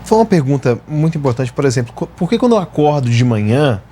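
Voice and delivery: normal talking voice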